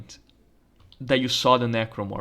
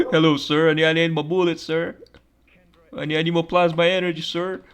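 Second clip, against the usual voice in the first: higher, fast, hammed-up plea for ammo; mock soldier voice; 4 semitones higher, 3 dB louder than usual. Player begging an officer for plasma ammo, mock pleading voice. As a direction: beg sir for bullets in a put-on voice.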